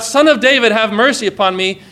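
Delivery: crying out. Retold or imitated. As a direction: call out over a crowd for mercy. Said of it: "he cried out".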